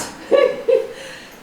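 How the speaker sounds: a high burst of laughter; squeaky amused laugh. Real, not acted. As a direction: laugh at the cheeky youngster. Horse misbehaving, owner amused.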